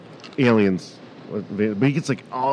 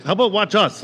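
mock panic; 9 semitones higher than usual. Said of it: "I was like".

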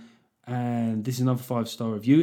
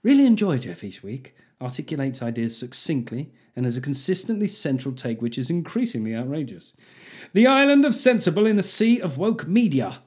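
exaggerated posh English accent; 2 semitones higher than usual. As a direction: read it as posh English as you can. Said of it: "the poshest I can imagine".

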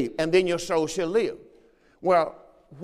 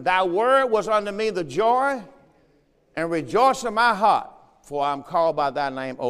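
raised, emphatic reading voice; scripture proclamation. Real, not acted. Preacher reads Jeremiah to the congregation, proclaiming it. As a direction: proclaim the verse from the pulpit.

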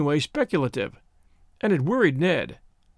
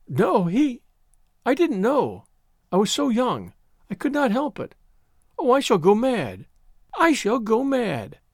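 high-pitched, desperate acted distress; higher, overwrought lament; frantic anguish; 6 semitones higher than usual. A narrator's reading. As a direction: plead in broken bursts, building to despair. Frantic girl protests she'll go mad.

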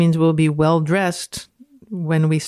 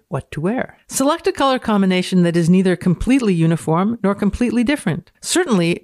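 dramatic reading. Acted.

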